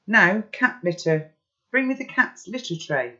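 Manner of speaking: loud, high command; urgent command. Acted. Pi ordering the litter tray, loud and urgent.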